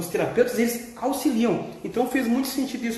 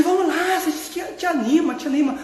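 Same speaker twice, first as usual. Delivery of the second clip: higher, chirpy cheer-up voice, lightly played; voicing Joy; 5 semitones higher than usual. Joy urging the sad character to cheer up, lightly voiced. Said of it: "E aí a felicidade".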